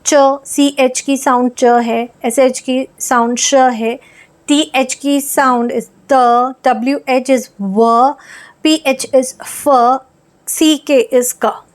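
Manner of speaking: slow, clear च, श, त, व, फ, क for each pair of letters; slow digraph drill. Shown as a demonstration. Teacher slowly naming the digraph sounds for children. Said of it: "ये कुछ डायग्राफ्स हैं".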